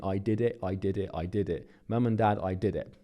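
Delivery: put-on tearful, crying voice with repeated words. Retelling a phone call to parents, reenacting own crying on the phone. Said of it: "I was on the phone to them crying".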